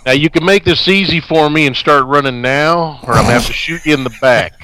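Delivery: Southern cop. Pretend. Playing a threatening cop.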